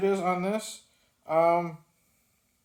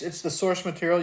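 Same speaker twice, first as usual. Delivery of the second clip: ordinary talk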